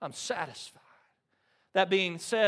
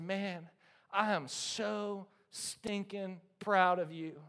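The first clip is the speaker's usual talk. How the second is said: soft, slow proud dad; tender pride; 6 dB quieter, slower than usual. Retold or imitated. Father hugging his son, soft tender pride. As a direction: say it softly, full of pride. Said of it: "I said".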